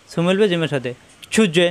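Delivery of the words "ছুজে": bounced জ closing ছুজে; qalqalah bounce. Shown as a demonstration. Teacher shows qalqalah, bouncing the জ of ছুজে. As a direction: release the জ in ছুজে with a short echo. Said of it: "জিম সাকিন কলকলা".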